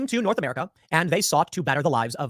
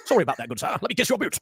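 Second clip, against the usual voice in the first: hammed-up posh British gentleman; posh British accent; 3 semitones higher than usual. British guy begging an Irish guy's pardon, mock posh British. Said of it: "a British guy kissing the boots".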